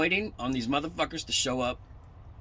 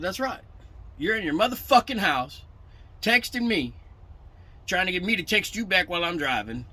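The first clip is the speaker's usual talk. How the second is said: loud, heated telling-off retold; angry rant; 2 semitones higher, 5 dB louder than usual. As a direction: chew him out over the phone, louder and louder. Retold angry phone call to broker.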